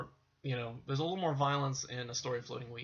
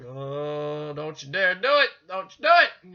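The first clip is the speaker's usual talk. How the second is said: mock warning; 9 dB louder than usual. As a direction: ham up a shrill dare. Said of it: "It's like".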